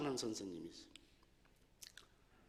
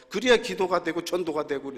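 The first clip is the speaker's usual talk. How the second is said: ordinary talk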